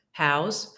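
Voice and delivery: How's said as one short syllable, haowz; contracted how's. Shown as a demonstration. Teacher showing students the contraction How's. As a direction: squeeze how and is into How's. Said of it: "We usually contract the words how and is".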